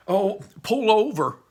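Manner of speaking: high, loud, drawn-out cry; urgent order. Acted. Barley telling his brother to stop, urgent cry. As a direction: call out urgently to the driver.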